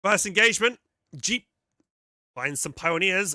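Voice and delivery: loud booming trailer announcer; big movie trailer narration. Pretend. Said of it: "my movie announcer voice".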